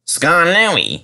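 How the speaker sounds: light surprise on the name; exclaiming. A narrator's reading. Controller surprised to see old Skarloey, exclaiming. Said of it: "he exclaimed".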